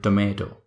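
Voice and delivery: Indian "tomato", "ay" vowel with a clear t; Indian pronunciation. Shown as a demonstration. Teacher showing how Indians combine both, "tomato" as "toh-MAY-toh". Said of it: "while in Indian accent".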